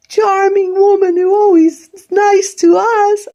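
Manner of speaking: high, sneering sarcasm; sarcastic. Real, not acted. Sneering at the sister-in-law praised by family, sarcastic.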